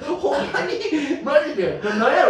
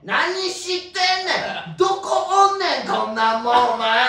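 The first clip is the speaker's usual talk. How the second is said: Kansai dialect; 4 semitones higher, slower than usual. Retold or imitated. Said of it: "一瞬で関西弁".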